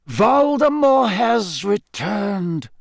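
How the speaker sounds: grave, deliberate insistence; firm declaration. A narrator's reading. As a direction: state it emphatically, drawing out each word. Dumbledore insists on the grim truth.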